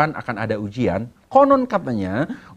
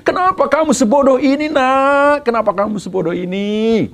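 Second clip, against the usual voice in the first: furious mother; 11 semitones higher than usual. Acted. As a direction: scold the child as a mother who is furious at the zero score. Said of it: "Mamanya marah besar". (ibu memarahi anaknya dengan suara tinggi dan keras)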